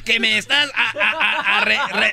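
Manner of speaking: angry stutter. Acted. Angry stutterer accuses pharmacist.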